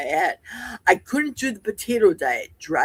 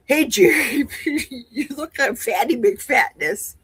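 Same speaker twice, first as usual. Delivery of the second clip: jokey, put-on bluntness; mock rude greeting; 4 semitones higher than usual. Imagined acquaintance bluntly calling Jerry fat, mock rude.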